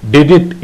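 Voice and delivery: did it run together as two quick beeps. Shown as a demonstration. Morse teacher showing the letter I. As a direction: say did it as one quick dit pair. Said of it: "you have to pronounce did it".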